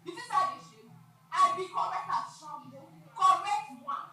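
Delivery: loud, high, brazen retort; defiant shout. Acted. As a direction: throw it back at him, proud and loud. Woman defiantly shouting back.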